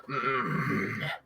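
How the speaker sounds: low, soft wordless grumble; menacing low hum. Acted. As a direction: hum it low like a silent intruder. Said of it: "intruders kinda look at you all like".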